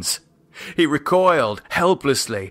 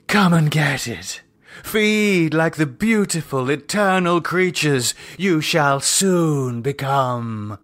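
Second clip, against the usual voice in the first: a lightly voiced, raised priestess invitation; inviting priestess; 3 semitones higher than usual. Lydia inviting her followers to feed, lightly raised. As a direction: beckon them in.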